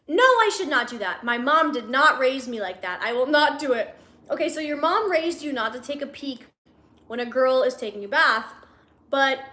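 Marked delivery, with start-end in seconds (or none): 0.1-3.9 louder, mock-righteous refusal; emphatic refusal. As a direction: put your foot down, stressing each no. Acting out his moral refusal.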